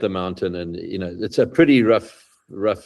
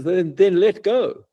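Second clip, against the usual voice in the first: slow, solemn godly command; God tells the dangling climber to let go, slow and solemn; 8 semitones higher, slower than usual. Retold or imitated. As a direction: intone it slowly, like God from above. God's voice in joke.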